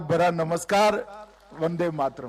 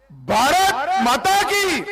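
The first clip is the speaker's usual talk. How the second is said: even louder, much higher rally call; rally speech; 10 semitones higher, 5 dB louder, slower than usual. Real, not acted. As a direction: rouse the crowd, slow and stretched. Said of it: "जरा जोर से दोनों हाथ उठाकर बोलिए".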